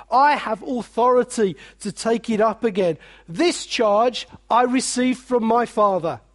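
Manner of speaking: measured, solemn words of Jesus; voicing Jesus.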